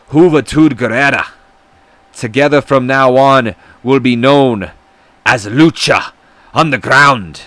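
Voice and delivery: put-on Hispanic accent. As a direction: proclaim it like a luchador, with a bad Hispanic accent. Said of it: "my horrendous Hispanic accent".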